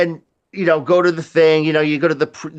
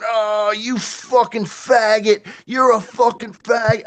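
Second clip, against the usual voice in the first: put-on groaning drunk voice; 5 semitones higher than usual. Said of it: "he's laying on the ground going".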